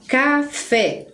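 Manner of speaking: CAFÉ in two beats, ca, fé; split into syllables. Shown as a demonstration. Teacher giving a two-syllable example, split into syllables. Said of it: "são aquelas que têm duas sílabas".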